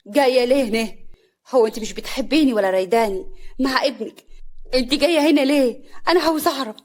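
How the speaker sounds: indignant challenge. Acted. Upset daughter confronts mother-in-law. (باعتراض وغضب)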